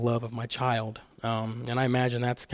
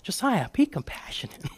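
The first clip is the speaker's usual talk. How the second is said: higher whispered motherly nudge; mom's reminder; 8 semitones higher, 4 dB quieter than usual. Retold or imitated. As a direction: gently echo mom's advice in a whisper. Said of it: "my mom even still tells me".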